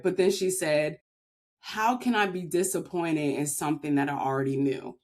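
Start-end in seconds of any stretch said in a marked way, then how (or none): 1.6-5.0 mildly dramatic retold reply; a little dramatic. Mom answering her child's coming out, a little dramatic. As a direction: imitate a measured, slightly dramatic reveal. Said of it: "very kinda dramatic a little bit".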